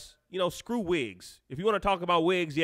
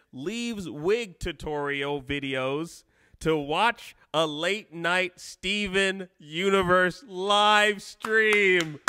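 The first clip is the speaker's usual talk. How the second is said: slow, drawn-out announcement, rising higher at the end; grand proclamation; 3 semitones higher, much slower than usual. Acted. Streamer proclaiming a viewer's chat message, grand slow build. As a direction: build slowly to a big, higher finish.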